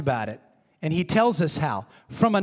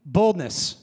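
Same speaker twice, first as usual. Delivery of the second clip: quoted prayer; 3 semitones higher, slower than usual. Retold or imitated. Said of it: "They said".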